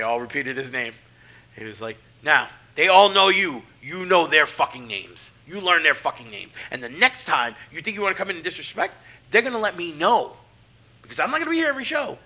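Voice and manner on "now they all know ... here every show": louder, stern warning; retold threat. Veteran warning the rookie about disrespect, loud and stern. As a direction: lay down the law hard.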